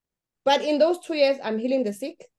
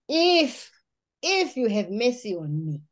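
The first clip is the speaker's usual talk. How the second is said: retold crying plea; slower than usual. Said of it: "I'm crying".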